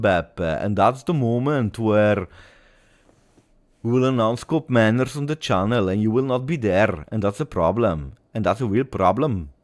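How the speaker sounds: badly attempted Scottish accent, lilting. Streamer imagining his announcement from Scotland, attempted Scottish accent. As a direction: put on a hammy, unconvincing Scottish accent. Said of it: "how do you rate my Scottish a-, uh, accent".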